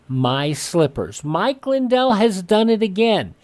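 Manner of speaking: radio ad read. Acted. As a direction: sell the slippers to radio listeners.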